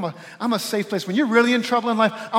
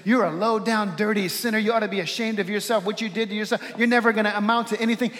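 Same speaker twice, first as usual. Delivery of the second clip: a touch of scolding accusation; mock condemning voice. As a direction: imitate an accuser, lightly pressing each charge. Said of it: "His voice doesn't sound like this".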